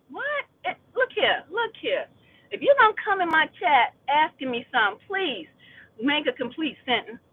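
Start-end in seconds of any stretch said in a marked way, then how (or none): 0.1-4.5 high, exasperated look here to the chat; sassy callout. Real, not acted. Streamer scolding chat, exasperated and high. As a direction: call the chat out, fed up.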